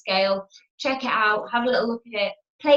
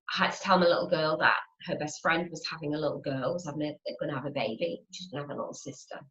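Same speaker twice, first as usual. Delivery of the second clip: hushed telling; 6 semitones lower, 7 dB quieter, faster than usual. Retold or imitated. Telling daughter sad news gently.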